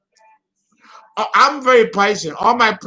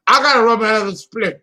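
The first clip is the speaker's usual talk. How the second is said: laughing through words; 3 semitones higher, 3 dB louder, much faster than usual. Real, not acted. Laughing fit on air.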